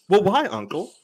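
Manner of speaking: a hint of a polite child asking why; imitating a child. Niece's polite question, retold.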